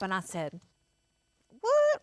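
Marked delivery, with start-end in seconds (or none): 1.6-2.0 high squeaky startled what; a loud, startled what; shocked what. Retold or imitated. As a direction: jump up in pitch, caught off guard. Shocked reply to dead animal.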